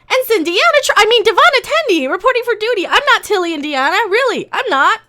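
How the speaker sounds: bright, fast mock of an eager new ensign; perky ensign mockery. Reviewer mocks the new ensign's eager introduction, perky and fast. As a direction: play up the eager ensign, high and quick.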